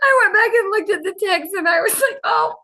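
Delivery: talking through laughter; laughing. Real, not acted. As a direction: still giggling while telling it. Laughing while retelling.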